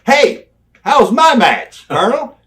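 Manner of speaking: fish for praise, drawing it out; Lex asking. Retold or imitated. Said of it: "and Lex would say".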